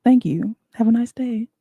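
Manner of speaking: polite, sing-song service voice; a cashier sending a customer off politely. Shown as a demonstration. Customer service voice. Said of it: "Gotta have a customer service voice".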